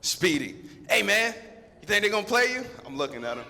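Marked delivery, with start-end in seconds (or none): 0.9-2.6 higher, louder eager buddy; buddy on the bench getting hyped; rising excitement. Retold or imitated. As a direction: push the question up with excitement. Buddy asking again, more eager.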